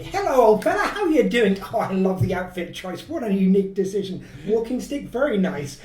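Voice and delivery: smooth-talk the stranger; Doctor fast-talking. Acted. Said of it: "I start fast talking".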